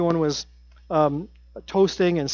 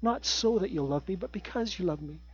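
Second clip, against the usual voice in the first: soft earnest emphasis; 9 dB quieter than usual. Real, not acted. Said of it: "There's a big difference".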